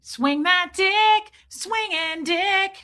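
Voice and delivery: playful Australian. Retold or imitated. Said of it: "'cause you know how you say".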